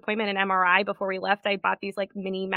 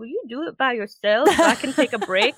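higher, pleading injured voice; milk the injury, higher and whiny; playing the injured card; 5 semitones higher, 4 dB louder than usual. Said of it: "I kinda used my, like".

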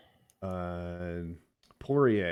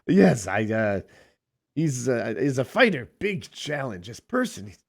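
put-on Russian accent. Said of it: "Khabib in his Russian accent".

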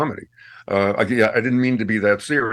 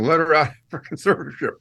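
mock crying fans; 4 semitones higher, faster than usual. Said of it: "people are crying and saying".

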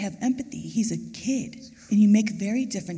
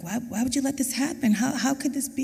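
higher, pleading protest; grieving mother questioning God, higher and anguished; angry at God; 6 semitones higher than usual. Retold or imitated. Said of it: "I was mad at God".

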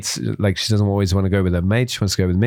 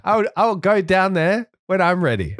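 mock macho boast; 8 semitones higher than usual. Telling wife Carla on the slope he is ready, mock bravado. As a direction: puff up and swagger through it. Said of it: "And it's like".

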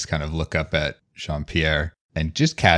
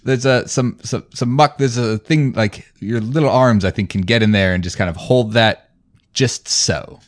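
much higher, eager fussy voice; character voice; 4 semitones higher, 3 dB louder than usual. Acted. Asking the big guy and the child for help, eager and high. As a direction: lift it high and coax them along.

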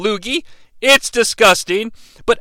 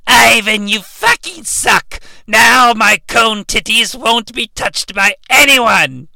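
Rita voice. Acted. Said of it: "Rita's like".

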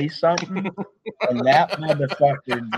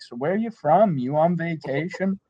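higher-pitched questioning stranger; lightly voiced nosy small-talker; curious bar stranger; 4 semitones higher than usual. Bar patrons chatting up a newcomer, lightly mimicked curiosity. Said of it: "people would just start talking to you".

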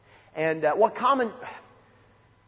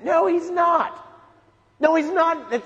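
louder and higher, hammering No down; emphatic denial; 8 semitones higher, 5 dB louder, slower than usual. Real, not acted. Preacher to youth rejecting angry Jesus, emphatic loud denial. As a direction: flatly refuse the idea, full force.

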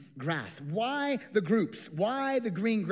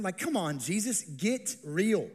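slow, dry, unimpressed; dry sarcasm; slower than usual. Acted. Disciples telling Jesus to get real, slow and dry. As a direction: drag out get real, deadpan. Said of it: "You feel the sarcasm?".

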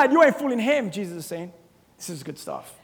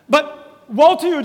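slow mock curse; 4 dB louder, slower than usual. Shown as a demonstration. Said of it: "just do it to someone".

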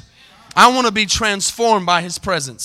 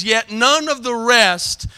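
slow, drawn-out scripture reading; deliberate, measured pulpit reading; reading kinda slow; 2 semitones higher, slower than usual. Real, not acted. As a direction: stretch each phrase of the verse. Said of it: "read them kinda slow".

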